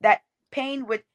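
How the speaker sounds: rhythmic spoken-word delivery; lifted, cadenced poetry voice; poem recitation. Shown as a demonstration. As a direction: perform it as verse to an audience. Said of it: "that poem that you're referencing".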